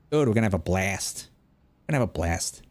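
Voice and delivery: broad Boston "a" in "blast"; Boston accent. Acted. Bostonian promising friends a good time, broad Boston accent. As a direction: lightly put on a Boston accent. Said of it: "in Boston, you say khakis".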